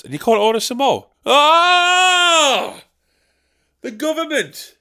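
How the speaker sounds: high, whiny self-pitying moan; martyred grumbler. Acted. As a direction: sulk like a put-upon martyr. Old Dick Lips persona.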